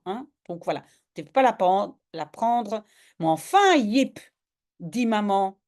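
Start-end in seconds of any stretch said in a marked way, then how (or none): 3.2-4.2 scolding mother. Acted.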